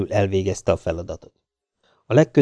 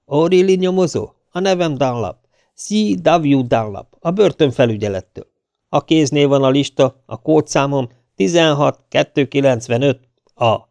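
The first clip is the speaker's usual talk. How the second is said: lightly acted, higher-pitched official introducing himself; identify yourself formally into the receiver; slightly raised phone-call voice; play-acting official on phone; 5 semitones higher, 3 dB louder than usual. Narrator fakes official phone call.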